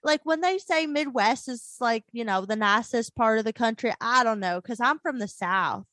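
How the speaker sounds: lightly hammed-up Southern twang; Southern accent. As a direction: talk like a Southerner from Ozark. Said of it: "you sound like Ruth Langmore from Ozark".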